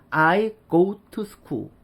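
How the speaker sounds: "I go to school" with a full "too". Shown as a demonstration. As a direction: clear T and full vowel in "to". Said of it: "결국 to가 the". ("to"를 "투"로 또렷하게)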